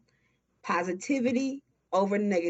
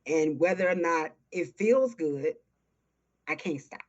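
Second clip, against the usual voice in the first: near tears. Real, not acted. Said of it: "you're gonna make me cry".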